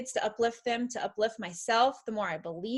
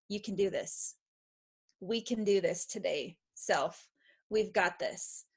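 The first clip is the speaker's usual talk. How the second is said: encouraging self-talk; 2 semitones lower, 4 dB quieter than usual. Retold or imitated. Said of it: "that says".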